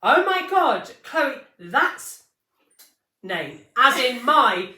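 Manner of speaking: high, loud shocked outburst; horrified shriek of disbelief; shocked gasp. Retold or imitated. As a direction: blurt it out in horror. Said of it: "I felt sick".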